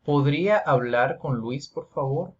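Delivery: fast Spanish ¿Podría hablar con Luis, por favor; Spanish translation. Shown as a demonstration. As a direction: switch to native Spanish for the meaning. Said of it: "this means in Spanish".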